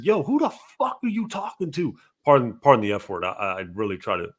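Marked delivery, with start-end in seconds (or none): 0.0-2.0 retold yell. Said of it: "I had to yell at you one time".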